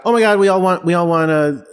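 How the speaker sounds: a hammed-up fan gush; mock freaking out. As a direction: play an overexcited fan squealing about a wedding. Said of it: "everybody freaks out".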